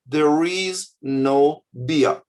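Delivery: slow, even and gentle, no edge; calm polite notice. Shown as a demonstration. Ideal kiosk sign read politely, slow and calm. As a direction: read it as a friendly neutral sign. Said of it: "you could write a normal human way".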